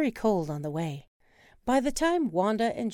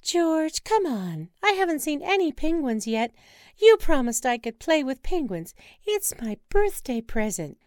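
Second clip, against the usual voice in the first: excited wife, higher and louder, pleading; birthday girl begging to see penguins; eager Wanda; 8 semitones higher, 6 dB louder than usual. Acted. Wife urging husband onward, eager and pleading.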